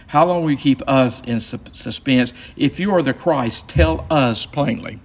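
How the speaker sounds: each "us" punched out; stress on US. Shown as a demonstration. Teacher rereading the leaders' demand, stress on each "us". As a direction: lean on "us" both times, slowing into "tell us plainly". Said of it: "you need to emphasize the us there".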